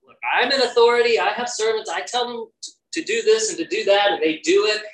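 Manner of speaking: a soldier telling how he gives orders; imitating the centurion.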